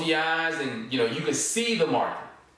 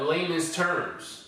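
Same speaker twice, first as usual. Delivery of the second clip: slow, deliberate; much slower than usual. Shown as a demonstration. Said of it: "as I would call it".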